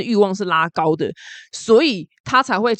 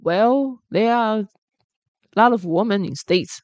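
softened tone; 2 semitones higher, slower than usual. Retold or imitated. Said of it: "然后语气就放软说".

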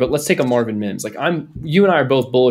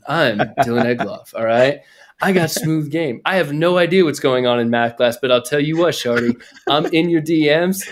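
R and B voice. Pretend. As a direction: play the smooth-talking schoolboy. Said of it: "practice my R and B voice".

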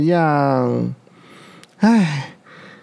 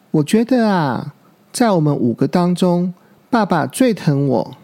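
smug; 3 semitones higher than usual. Acted. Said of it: "小鹿一脸得意地说".

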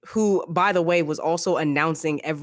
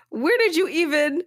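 a higher-pitched, mock-astonished Dany; amazed, raised voice; 12 semitones higher than usual. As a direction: sputter out her disbelief, playfully.

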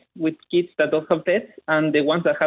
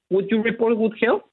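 Chilean accent; 5 semitones higher than usual. Real, not acted. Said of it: "he has a delightfully thick Chilean accent".

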